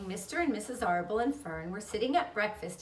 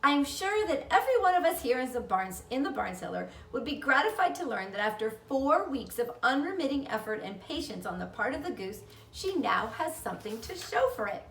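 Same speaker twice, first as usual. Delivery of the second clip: spider's speech; 4 semitones higher than usual. Retold or imitated. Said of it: "She made a speech".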